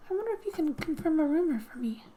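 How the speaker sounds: a lightly voiced sly creature, leaning in; half-whispered gossip from a sly monster; slithery character voice. Mopsy the slithering character speaks.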